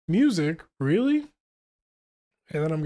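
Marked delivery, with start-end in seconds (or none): 0.1-1.3 incredulous quick question; surprised. Acted. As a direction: pitch jumps up on Really. Reading surprised character line.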